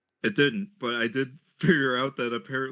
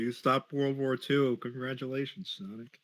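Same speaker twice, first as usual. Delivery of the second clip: mock congratulations; 4 dB quieter than usual. Mock congratulating the fanfic hero.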